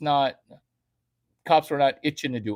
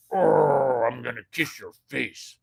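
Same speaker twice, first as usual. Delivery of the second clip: mock doting kisser; 3 semitones lower, 4 dB louder than usual. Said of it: "sometimes they're like".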